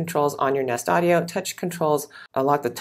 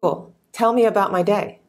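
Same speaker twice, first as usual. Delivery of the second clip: talking to voice assistant; 5 semitones higher than usual. Real, not acted. Speaking command to smart speaker.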